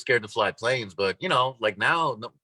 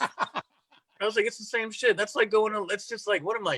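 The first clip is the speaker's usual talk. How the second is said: much higher, laughing at the absurdity; laughing incredulity; 10 semitones higher than usual. Real, not acted. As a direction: laugh it out in disbelief.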